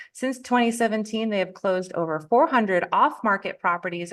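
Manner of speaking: scripted, upbeat welcome read; podcast host intro. Acted. Host introduces the podcast and guest, scripted welcome.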